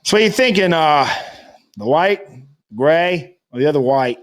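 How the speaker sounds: imitating a Boston rental clerk; Kennedy-like New England accent. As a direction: offer choices in a light Boston accent. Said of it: "now I sound like a Kennedy".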